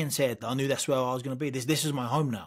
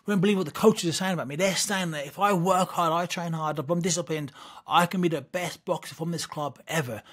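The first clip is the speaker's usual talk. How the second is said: put-on higher-pitched eager kid; excited bluffing; 4 semitones higher than usual. Boy telling mum what coaches supposedly said, excited bluff. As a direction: breathlessly sell mum a tall tale. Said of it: "I just bullshitted her".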